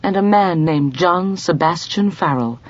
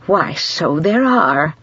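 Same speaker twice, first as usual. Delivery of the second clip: slow, beaming and pleased; slow proud beaming reply; slower than usual. A narrator's reading. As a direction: let the smile shine through. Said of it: "beamed Missus Polyfax".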